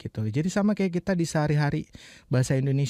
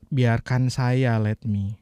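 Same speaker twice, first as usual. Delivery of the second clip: slow gloss; much slower than usual. Shown as a demonstration. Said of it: "let me itu biarkan".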